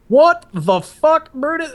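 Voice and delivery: sudden high bellow from the master guns; angry yell. Retold or imitated. Drill sergeant catching recruit shadowboxing, furious shout. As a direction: roar it out in shock at the recruit. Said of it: "He's like".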